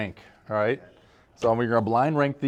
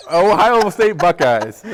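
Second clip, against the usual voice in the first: slow; 4 semitones higher, 6 dB louder, much slower than usual. Real, not acted. Slow drawn-out guess.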